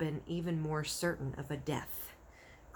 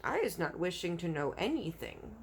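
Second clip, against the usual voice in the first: dignified. Acted. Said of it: "very dignified".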